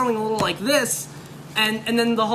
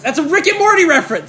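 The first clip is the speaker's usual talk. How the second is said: raised, louder, higher voice; emphatic announcement; 5 semitones higher, 8 dB louder than usual. Shown as a demonstration. Guest repeating his Rick and Morty reference, loud and emphatic. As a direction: call it out loud and high.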